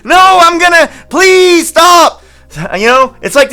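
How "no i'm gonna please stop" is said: much higher, louder pleading yell; mock shout. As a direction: shout to make him stop. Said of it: "And I'm like".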